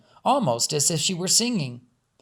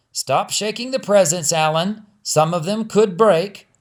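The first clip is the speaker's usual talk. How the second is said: louder call from the next room; 4 semitones higher, 5 dB louder than usual. Acted. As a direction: scold the boy from afar. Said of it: "called out from the foyer".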